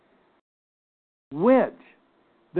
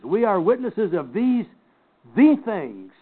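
deliberate emphasis on "these the things"; emphatic; 3 semitones higher than usual. Shown as a demonstration. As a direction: stress "these", pause, then hit "the things".

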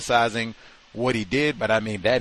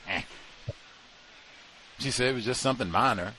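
normal talking voice

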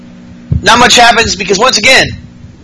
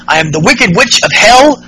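a touch higher, gloating mock villain; mock witchy villain; 4 semitones higher than usual. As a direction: boast like a tiny cartoon witch. Bliss quoted in wrestling recap.

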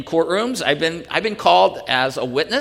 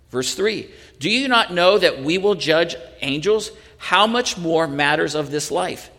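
measured reading of the passage; lightly voiced Bible reading; scripture reading. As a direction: read the text out to the church. Reads the Scripture passage aloud.

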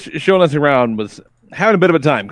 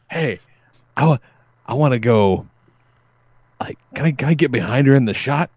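imitating a drunk man. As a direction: lightly play a tipsy guy asking a favor. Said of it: "his so drunk his nose is just cherry red".

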